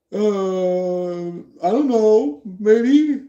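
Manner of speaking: drawn-out high, rising hedge; mock uncertainty. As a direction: play someone squeaking out a doubtful answer. Acted hesitant answer to threat.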